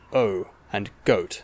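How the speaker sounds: "O" and "goat" gliding to a rounded "oo"; "goat" with the vowel ending on "oo"; American O vowel. Shown as a demonstration. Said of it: "In many American accents".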